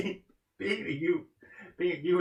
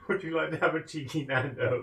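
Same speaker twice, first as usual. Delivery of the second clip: mock British. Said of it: "being so much chat".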